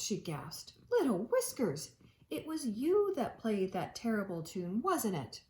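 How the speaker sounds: gentle read-aloud storytelling voice; reading aloud to a child at home; storybook narration. A narrator's reading. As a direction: read it like a bedtime picture book. Reading picture book to children.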